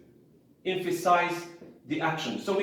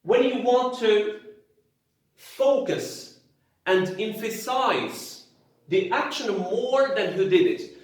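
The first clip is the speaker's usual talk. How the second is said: key words pushed higher and louder; stressed slow rule; 3 semitones higher, 3 dB louder than usual. Shown as a demonstration. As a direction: spell out the rule word by word, louder. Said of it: "The passive is important".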